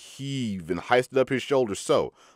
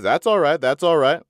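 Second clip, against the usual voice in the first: quick eager reassurance; 6 semitones higher, 6 dB louder than usual. A narrator's reading. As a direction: jump in eagerly. Smiley eagerly reassures stranger.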